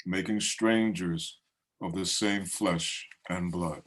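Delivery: measured, deliberate verse with pauses between phrases; poetry reading. Acted. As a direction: open each stanza strongly, then let it settle. Reads own poem aloud.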